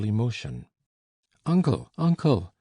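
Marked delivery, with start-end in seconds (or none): 1.5-2.5 high, loud call across the field; calling out to his uncle in excitement; shouting. A narrator's reading. Narrator shouts to his uncle across the vineyard. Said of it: "I shouted".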